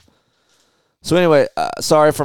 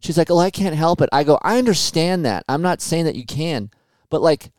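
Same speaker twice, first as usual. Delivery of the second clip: exasperated retelling; 8 semitones higher than usual. Retold or imitated. Retells pleading with wife.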